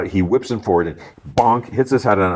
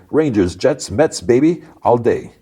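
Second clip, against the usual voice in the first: high, punchy local-fan voice; proud sports fan; 6 semitones higher than usual. Retold or imitated. Sports guy answers about his teams, high and boastful. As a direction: boast in a put-on higher voice.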